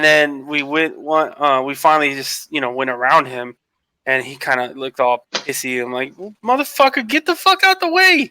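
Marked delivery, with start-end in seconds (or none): 6.2-8.3 "get the fuck out the way" yelled high; retold road rage yell. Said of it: "I was so pissed".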